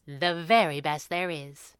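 slow, self-satisfied smile in the voice; smiling. A narrator's reading. Sister accepts the mercenary label, smiling. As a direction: savour the boast a little, unhurried. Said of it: "she smiled".

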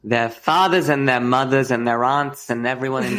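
broad New England vowels; hammed-up New England relative; New England accent. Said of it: "our fathers".

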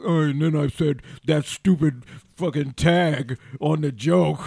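slow, put-upon moaning; self-mocking whine. Comic mocks himself being down on himself after a set. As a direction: sulk at your own bad joke. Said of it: "I'll go".

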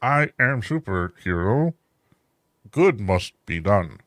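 slow, lightly put-on hero voice; monologuing Superman. Imagining Superman monologuing in Times Square, slow mock gravitas. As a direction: ponder aloud like a lost hero. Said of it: "just, like, monologuing".

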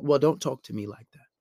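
calm boundary-setting. Shown as a demonstration. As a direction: state it evenly, without getting excited. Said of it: "you wanna keep a calm tone".

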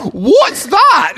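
high Cockney echo of the question; Cockney accent. Pretend. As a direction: answer back in a Cockney accent. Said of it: "the Cockney accent".

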